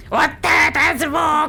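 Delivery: slow drawn-out wow; amazed. Real, not acted. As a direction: savour every word. Восхищается звуком. (протяжно и восторженно)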